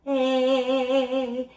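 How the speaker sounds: smiling "Eh" that lifts the palate; lifted bright "Eh"; bright eh vowel. Shown as a demonstration. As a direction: sing "Eh" bright. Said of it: "So when you go".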